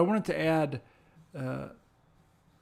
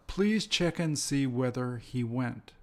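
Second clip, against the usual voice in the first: slow, careful model sentence; each word set out slowly for learners; slow example sentence. Shown as a demonstration. Teacher reading a model sentence slowly to students. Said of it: "here's where one of them is".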